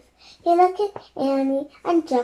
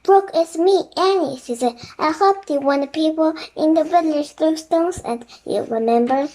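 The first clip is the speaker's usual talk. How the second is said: pleading; 4 semitones higher, 4 dB louder than usual. Acted. Annie pleading with the raven.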